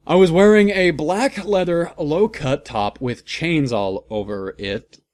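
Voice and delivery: high and loud, hamming up the outfit; hammed-up dramatic. Reader mocks the heroine's outfit, high and loud. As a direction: oversell every item.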